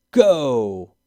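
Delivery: loud, sharp call to start the race; shouted start. A narrator's reading. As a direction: bark out the start signal. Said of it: "Ellie shouted".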